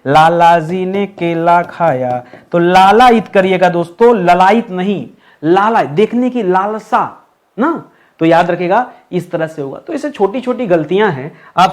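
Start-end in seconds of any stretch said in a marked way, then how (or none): 0.1-2.2 slow example line. Shown as a demonstration. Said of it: "लाला, पहले बताइए". 5.4-7.9 slow explanation. Shown as a demonstration. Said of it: "लाला, पहले बताइए".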